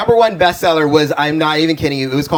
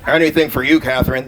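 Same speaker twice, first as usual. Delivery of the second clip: straight voice; 5 semitones lower than usual. Acted. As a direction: drop into a deep mock straight-guy voice. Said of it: "That's my straight voice".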